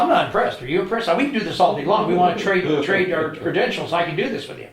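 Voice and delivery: defiant taunt. Retold or imitated. Challenging the shot caller, loud mocking defiance. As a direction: needle him, daring him to keep going.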